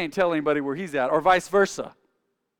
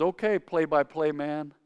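wife teasing; 3 semitones lower, slower than usual. Retold or imitated. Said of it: "my wife says".

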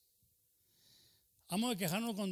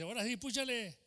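uncle's command; 6 semitones higher than usual. Retold or imitated. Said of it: "y dice".

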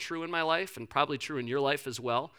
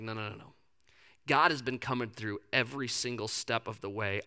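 calm reassurance; 3 semitones lower than usual. Acted. Elijah calmly insisting to widow.

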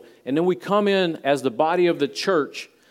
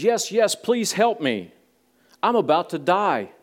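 lightly acted, higher-pitched plea; a touch of desperate begging, pitched up; urgent pleading; 5 semitones higher than usual. Falling man begs the voice to save him, mildly frantic pleading.

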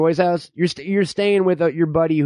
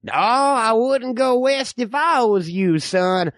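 lightly voiced distrustful old-timer; folksy backwoods codger spinning tales; old man; 2 semitones lower than usual. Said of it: "I'm the old man".

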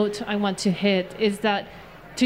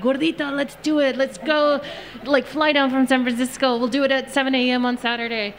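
lightly voiced eager mom, slightly higher; 4 semitones higher than usual. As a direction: imitate mom urging her daughter on. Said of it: "I told my mom ... and she's like".

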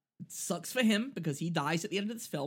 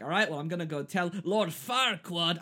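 a light Scottish accent, barely put on; lightly voiced Scottish ogre. Host quoting Shrek in a faint Scottish accent. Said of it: "I'm gonna stop doing the Scottish accent".

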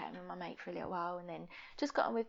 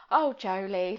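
sympathetic mum; 8 dB louder, slower than usual. Retold or imitated. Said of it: "like that".

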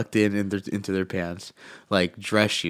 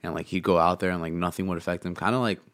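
talking with a cough drop in mouth; swallowing while talking. Real, not acted. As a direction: gulps between words. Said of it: "Dude, I hear all your swallowing".

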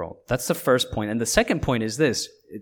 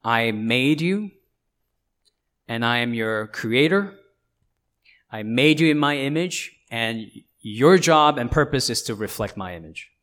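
voicing God; 5 dB louder than usual. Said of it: "you should hear him saying to you".

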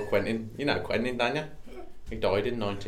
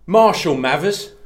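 Cockney exclamation; 7 semitones higher, 9 dB louder, slower than usual. Pretend. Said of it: "It's like an exclamation".

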